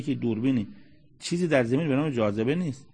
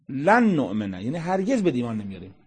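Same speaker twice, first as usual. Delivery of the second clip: rude refusal. Retold or imitated.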